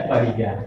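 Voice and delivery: पहिया with a brief i; quick short vowel. Shown as a demonstration. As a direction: pass quickly over the i in पहिया. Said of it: "ई की मात्रा को जल्दी से कहा जा रहा है".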